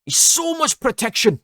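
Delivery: very high, loud Geordie yell; attempted Geordie shout. Second go at the fan's shout into the mic, attempted Geordie accent. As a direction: holler it in a badly faked Geordie accent. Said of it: "a Geordie accent".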